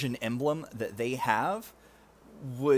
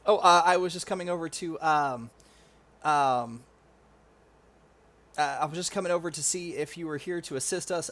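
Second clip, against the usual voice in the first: nervous stammering soldier; 3 semitones higher than usual. Acted. Nervous soldier apologizing to a superior officer, stammering.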